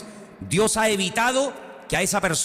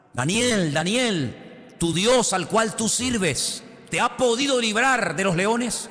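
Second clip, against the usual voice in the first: anxious calling out; 6 semitones higher, much slower than usual. Retold or imitated. King calls into lions' den.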